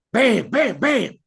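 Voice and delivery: bam bam bam, high and punchy like shots; mock gunshots. Telling a joke, imitating the gunshots loudly. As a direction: fire off the shots sharply.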